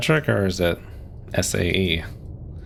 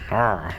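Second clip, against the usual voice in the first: pirate arr; 2 semitones higher than usual. Pretend. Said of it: "fishing boat captain at this point".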